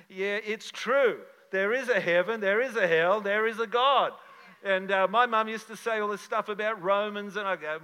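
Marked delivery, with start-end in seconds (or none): 0.1-4.1 emphatic preaching. Real, not acted. Pastor declaring his beliefs.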